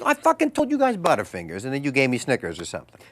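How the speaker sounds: retold grumble, starting high and loud; high outburst easing off into a casual gripe; mock exasperation. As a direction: imitate a director fed up with the crew. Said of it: "he looks a little pissed".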